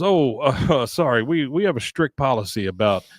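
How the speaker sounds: mock-polite store clerk turning him down; snooty clerk voice. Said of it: "He goes".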